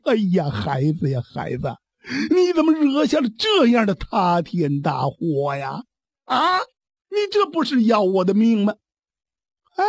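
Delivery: lamenting, breaking into a sob at the end; a father crying out over his son's disaster; anguished father. Acted. Father wailing at his son over the calamity, near tears.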